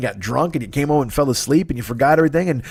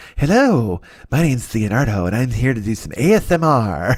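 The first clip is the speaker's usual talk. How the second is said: put-on ASMR-style lisp, lower and slower; 3 semitones lower than usual. Mocking an ASMR creator's Patreon intro, imitating Leonardo's lisp. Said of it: "this guy's lisp generating spit".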